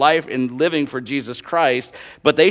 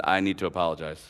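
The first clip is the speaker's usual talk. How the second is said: low, soft retold apology; subdued and earnest; sincere apology; 7 semitones lower, 9 dB quieter, faster than usual. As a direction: voice a humbled coworker apologizing quietly. Coworker's apology on last night.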